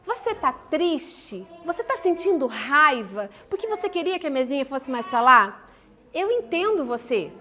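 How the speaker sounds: kneel down and ask softly, with all the patience you have; gentle empathy. Shown as a demonstration. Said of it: "olha nos olhos e fala assim". (mãe abaixada falando baixinho e devagar com a filha, acolhendo)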